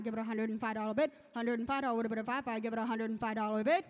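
singsong auctioneer bid chant. Acted. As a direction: roll the numbers in an auction chant. Contestant calls auction bids.

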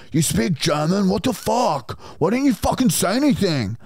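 high-pitched shocked "what the fuck"; shocked disbelief. Retold or imitated.

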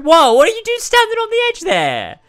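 alarmed. Real, not acted. Alarm at character.

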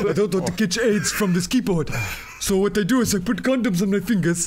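laughing mock African accent; caricatured African accent. Joker plays an African explaining an online search, mock African accent. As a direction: put on a joking African accent. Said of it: "Why do they sound like the pirate from Captain Phillips?".

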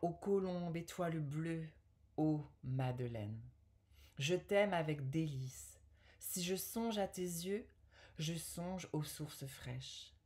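measured poetry reading with pauses between verses; poem recital. Acted. Woman reading an Apollinaire love poem to viewers, poem recital. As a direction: recite the verse phrase by phrase, carefully articulated.

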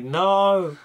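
exaggerated fan dismay; mock pleading.

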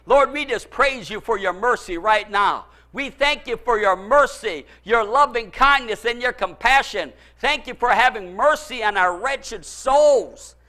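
a sudden, earnest prayer. Real, not acted. Preacher turns to pray aloud to the Lord.

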